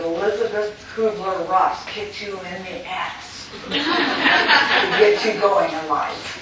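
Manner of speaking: quoting Elizabeth while breaking into laughter; laughing through quote. Retold or imitated. Retelling Elizabeth's joke to the audience, laughing. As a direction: laugh your way through her cheeky line.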